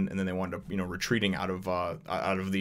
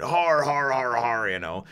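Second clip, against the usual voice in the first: spoken mock laugh; 4 semitones higher, slower than usual. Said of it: "starts laughing at him".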